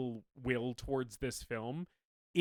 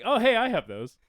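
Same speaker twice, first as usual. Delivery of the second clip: excited; 7 semitones higher, 8 dB louder than usual. Retold or imitated. Excited self-recognition quote.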